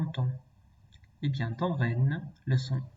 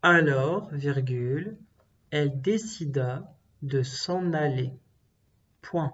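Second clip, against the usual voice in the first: dictating. Shown as a demonstration. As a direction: clear dictation voice. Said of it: "Je répète".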